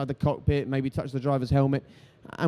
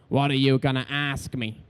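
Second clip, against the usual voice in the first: Eddie Jordan impression. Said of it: "I fear there may be an impression or two coming".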